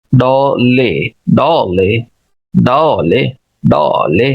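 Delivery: डॉ stressed and drawn out, ले light; stress on first syllable. Shown as a demonstration. Teacher demonstrates dollar for learners, stress on डॉ. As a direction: lean on डॉ, let ले fall away. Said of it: "पहले syllable पे मेरा stress".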